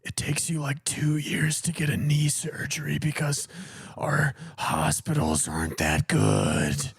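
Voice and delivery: a mock Canadian Batman. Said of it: "Canadian Batman".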